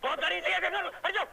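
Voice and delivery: loud hammed-up jeering; mock taunting shout. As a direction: shove her aside with a taunt. Taunting while smashing car.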